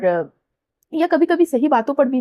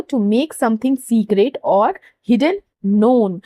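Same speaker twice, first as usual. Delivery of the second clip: slow dictation; much slower than usual. Shown as a demonstration. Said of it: "यहाँ पे underline".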